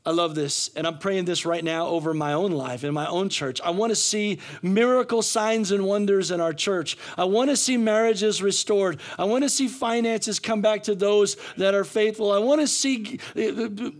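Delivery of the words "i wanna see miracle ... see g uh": pleading, building preacher's list; fervent preaching. Real, not acted. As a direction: preach it with rising urgency.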